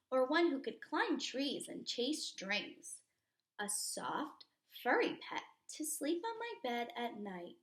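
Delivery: put-on lively read-aloud for kids; storybook reading. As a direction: read it to a class like a picture book. Reading picture book aloud.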